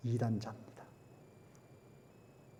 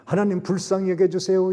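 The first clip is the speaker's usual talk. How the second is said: 불쌍히 여겨주세요 cried out much higher and louder; loud plea; 6 semitones higher, 7 dB louder than usual. Acted. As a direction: beg 여겨주세요 at full voice. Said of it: "그들의 죄를 회개합니다".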